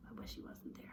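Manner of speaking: whispered wish. Shown as a demonstration. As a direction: breathe it out sulkily. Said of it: "He's kinda like".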